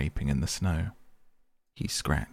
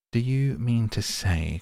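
higher, louder excited cry, slow; 5 semitones higher, 3 dB louder, slower than usual. Acted. Rat cries out to the mole about the doormat, excited. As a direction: burst out in disbelief. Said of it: "cried the excited rat".

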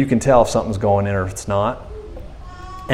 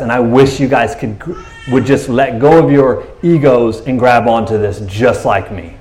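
tearful plea. Real, not acted. Preacher begging the crowd to let go, tearful. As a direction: voice catching with tears as he pleads.

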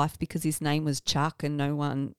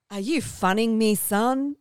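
put-on drawling old-timer quote; 4 semitones higher, 5 dB louder than usual. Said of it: "he goes".

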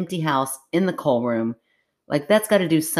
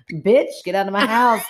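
mock angry; 6 semitones higher, 4 dB louder than usual.

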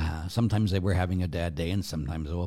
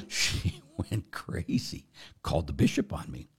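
whisper; 3 semitones lower, 4 dB quieter than usual. Real, not acted. Aside about the complaint.

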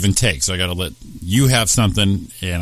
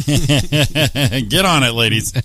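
laughing; 5 semitones higher, much slower than usual. Pretend. Mock cheer at sexist ad.

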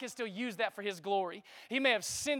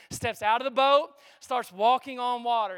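louder, triumphant call; preaching shout; 7 dB louder than usual. Acted. Preacher crying out as Peter steps onto the water. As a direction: shout the miracle out. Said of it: "preacher shouts the moment".

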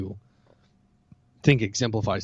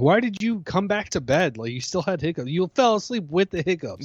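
higher-pitched, incredulous nagging question; mock complaint; 7 semitones higher than usual. Husband voicing his wife's complaint about hiccups, mock indignant. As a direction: imitate an aggrieved bedmate, pitched up.

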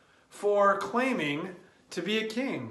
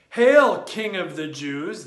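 mock shout; 6 dB louder than usual. Mocking soldiers' greeting.

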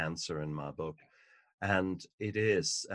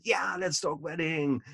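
higher, lightly voiced mother, chirpy and agreeable; mother's cheerful reply; 9 semitones higher, 3 dB louder than usual. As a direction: play the mom happily agreeing. Mother answers daughter in story.

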